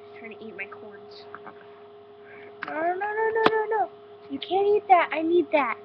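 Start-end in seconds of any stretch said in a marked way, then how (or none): 2.7-5.8 loud no no no scolding. Real, not acted. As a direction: shout at the pet to stop. Scolding bunny eating her food.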